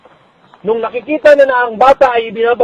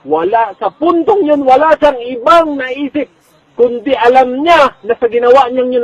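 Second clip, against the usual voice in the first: slow and emphatic; 5 semitones higher, 5 dB louder than usual. Real, not acted.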